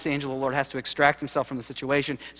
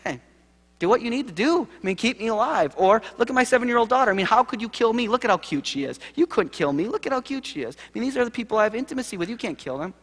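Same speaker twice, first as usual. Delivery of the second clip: desperate Jacob; 8 semitones higher than usual. Retold or imitated. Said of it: "he says".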